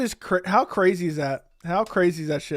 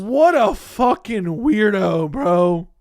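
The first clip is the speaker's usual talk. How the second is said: louder, slow, disgusted jab at the clip; disgusted outburst; 3 semitones higher, 6 dB louder, much slower than usual. Real, not acted. Streamer reacting to Chandler's interview, loud and disgusted. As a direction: spit it out in real disbelief.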